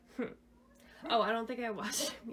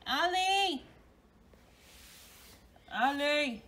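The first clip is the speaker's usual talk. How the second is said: calling out; 5 semitones higher, 3 dB louder, slower than usual. Real, not acted. Mom calling toddler.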